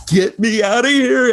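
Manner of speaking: high-pitched creeped-out plea; exaggerated panicky squeal; mock panic. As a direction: act out wanting to flee. Retelling panic in whisper room.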